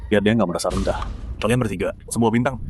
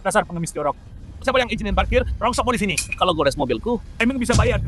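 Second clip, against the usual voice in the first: shrill, high scolding at a beggar; contemptuous shouting; 11 semitones higher than usual. Acted. Rich driver yelling at a street sweeper over parking, contemptuous and shrill. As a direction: sneer down at him and yell.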